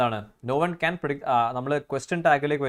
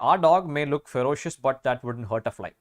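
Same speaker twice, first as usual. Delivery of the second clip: slow reading; much slower than usual. Shown as a demonstration. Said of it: "reads exam sentence slowly".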